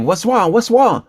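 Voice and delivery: high-pitched imitation of wife's Asian accent; imitated Asian wife. Comedian quoting his startled wife, imitated Asian accent. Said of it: "you know, my wife's Asian".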